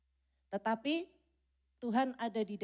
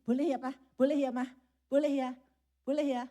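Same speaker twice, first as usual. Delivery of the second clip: put-on louder, pleading little kid; child nagging mum and dad, louder; whining child; 3 semitones higher, 6 dB louder than usual. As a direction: beg parents over and over. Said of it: "anaknya ngerengek-ngerengek".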